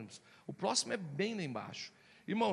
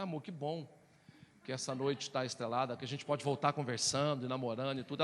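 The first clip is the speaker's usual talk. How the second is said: calm, tender; 4 semitones lower than usual. Retold or imitated. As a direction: speak sweetly now the anger is gone. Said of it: "calma, passou a raiva".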